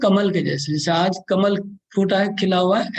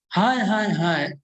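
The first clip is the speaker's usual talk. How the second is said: pleading lament; slower than usual. Acted. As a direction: plead with folded hands. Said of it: "एकदम विनय कर रहे हैं हाथ जोड़ के".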